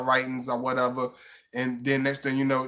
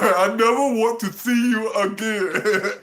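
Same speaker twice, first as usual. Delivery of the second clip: high, loud, laughing mock whine; hammed-up heartbroken date; mock wounded guy; 6 semitones higher, 5 dB louder, slower than usual. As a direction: wail it through laughter. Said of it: "You like".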